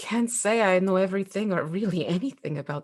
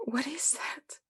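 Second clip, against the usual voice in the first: whispering; 5 semitones higher, 6 dB quieter than usual. Acted. Hushed question at apparition.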